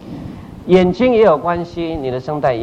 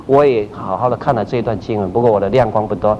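lower, sincere private prayer; humble prayer; 4 semitones lower than usual. Acted. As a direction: pray it humbly and plainly. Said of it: "那就说".

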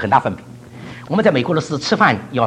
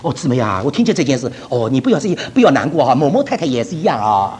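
mock consoling; 4 semitones lower than usual. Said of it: "拿个电话起来".

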